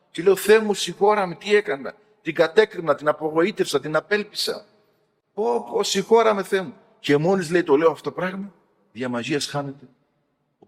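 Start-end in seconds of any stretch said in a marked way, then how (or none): 0.4-6.7 high-pitched acted cry for forgiveness; imitated remorseful plea. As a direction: beg God as the penitent monk, pitch lifted. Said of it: "Και πέφτω, λέει, κάτω στα γόνατα".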